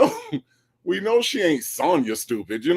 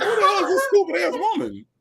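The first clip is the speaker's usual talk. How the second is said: exasperated disbelief; faster than usual. Retold or imitated. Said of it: "And I'm like".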